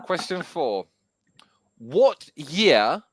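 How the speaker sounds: whispered, unvoiced question; whispering.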